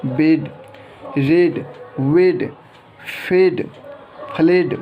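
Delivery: example words one by one, long ए vowel in "बेड", "रेड", "फेड"; E read as ए. Shown as a demonstration. Teacher reading rule examples to learners, long ए sound. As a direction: say "वेड" and "फ्लेड" with a drawn-out "ay" vowel. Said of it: "कई बार ए होता है".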